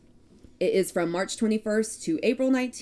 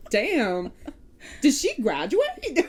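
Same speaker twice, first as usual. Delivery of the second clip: mock viewer; 6 semitones higher, 3 dB louder, slower than usual. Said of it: "everyone's like".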